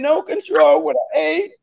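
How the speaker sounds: choking up as the memory hits; crying. Real, not acted. Testifying about her stroke, voice breaking in tears.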